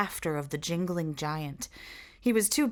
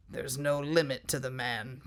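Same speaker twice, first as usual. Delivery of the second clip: wonderingly; 4 semitones lower than usual. Acted. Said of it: "Jack Jingley said wonderingly".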